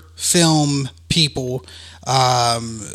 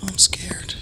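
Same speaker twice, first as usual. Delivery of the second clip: put-on scared kid; 7 semitones higher, 9 dB quieter, slower than usual. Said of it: "I was like".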